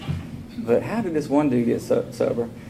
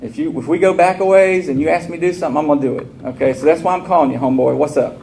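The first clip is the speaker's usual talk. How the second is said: louder, pushy phone voice; aggressive; 2 semitones higher, 5 dB louder than usual. Retold or imitated. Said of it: "I'm aggressive".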